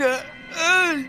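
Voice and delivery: high choked cry of terror; terrified shriek. Acted. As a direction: break off into a strangled scream. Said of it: "the old man's shriek".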